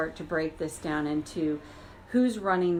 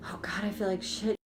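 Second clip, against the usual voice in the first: mock crying. Shown as a demonstration. Voicing the hurt emotional part.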